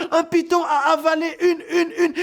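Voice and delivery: very high, loud stammering alarm; panicked cry. Acted. Second woman screaming, too panicked to finish, very high and loud. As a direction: stumble over the words in fright. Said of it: "une autre femme qui criait".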